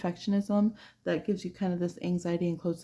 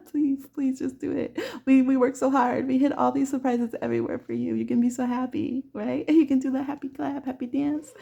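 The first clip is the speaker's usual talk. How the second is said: pleading muses; 6 semitones higher than usual. Retold or imitated. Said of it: "And they're like".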